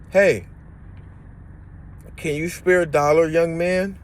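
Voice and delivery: high voiced plea from an old lady; lady asking for money. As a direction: lightly voice the lady asking for a dollar. Begging lady voiced in story.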